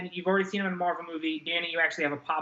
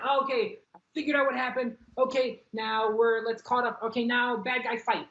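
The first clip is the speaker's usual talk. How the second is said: mock viewer voice; 8 semitones higher than usual. Mocking rushed movie viewer.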